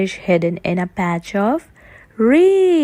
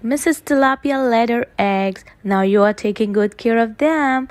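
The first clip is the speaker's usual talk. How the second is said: fast; faster than usual. Acted. Fast in-character speech.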